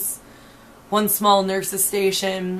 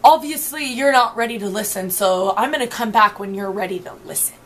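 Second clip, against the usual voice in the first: condescending tone; faster than usual. Retold or imitated. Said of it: "in a nice condescending tone".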